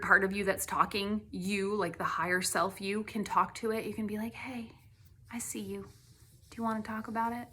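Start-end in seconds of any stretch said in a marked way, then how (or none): 4.3-7.5 soft, much quieter gentle whisper; nice and quiet. Shown as a demonstration. Talking gently to your own scared part, whispered. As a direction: coax it like a scared animal. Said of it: "You can just talk nice and quiet".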